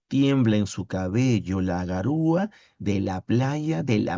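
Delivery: measured, lilting verse reading; poem recitation. Acted. Teacher reading a poem to the class, lyrical recitation. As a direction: recite line by line, lingering on line endings.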